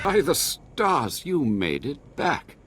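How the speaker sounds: high, slow gasp of surprise, then settling; stunned that they returned at all; amazed relief. Acted. Companion returns unexpectedly.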